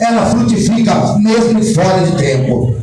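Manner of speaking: rising call-and-response preaching at full force; building preaching. Acted. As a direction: drive the congregation harder with every repeat. Repeated "tá chorando" refrain.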